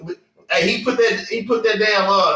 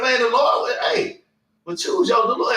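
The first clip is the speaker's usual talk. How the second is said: raised voice calling out the Lord; preaching shout; 4 semitones higher than usual. Real, not acted. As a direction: drive it home with a shout. Preaching at full force.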